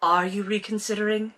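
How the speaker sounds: restrained, questioning fake Brit; understated British-accented question; bad British accent. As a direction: ask it quietly in mock British. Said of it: "This is Maxim's thought".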